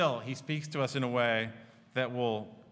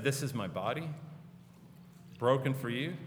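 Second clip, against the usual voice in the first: a hint of gentle, quieter words; 3 semitones lower, 4 dB quieter than usual. Jesus to the disciples, lightly gentle and quiet. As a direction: say it gently, almost softly. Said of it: "he gently and quietly said".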